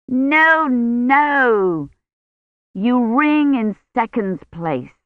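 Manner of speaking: high, instructive lady's voice; bossy bell teacher. Acted. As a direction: correct the ringer like a strict teacher. Miss Taylor instructs ringers.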